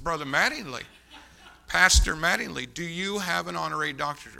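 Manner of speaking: insistent repeat, punching the title; firm questioning. Retold or imitated. Repeats question more firmly.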